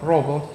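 "robot" with its final t sounded; correct robot pronunciation. Shown as a demonstration. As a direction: say "robot" ending on a T. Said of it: "even if you're speaking in Italian".

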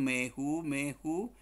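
"Meju" with audible h, rising each time; pronunciation demo. Shown as a demonstration. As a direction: show learners "Meju" with a sounded h. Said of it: "¿Veis la pronunciación?". (pronunciación modelo de "Meju", con la hache sonora)

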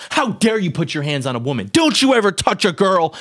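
hammed-up outraged defender, rising to a high, loud finish; mock white knight. White knights defending a woman from push back, mock outrage. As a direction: build to a mock-heroic shout of outrage. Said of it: "you would have heard all the white knights".

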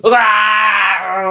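long-drawn play cry; mock pain wail. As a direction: wail as if hurt in the match. Wrestler hurt in play match.

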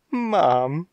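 high, little kitten call; tiny kitten voice. Acted. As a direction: say it like a small happy kitten. Kitten calls mother.

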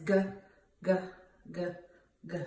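"G" as a short hard guh; letter sound demo. Shown as a demonstration. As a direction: sound out "G" in separate bursts. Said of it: "Gordo Gorilla says".

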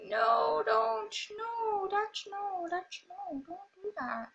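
retold pleading. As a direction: plead in a high voice, fading away. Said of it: "I was like".

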